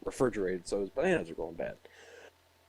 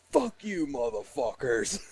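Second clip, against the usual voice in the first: yelling; 3 semitones higher, slower than usual. Retold or imitated. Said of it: "I hear this motherfucker yelling".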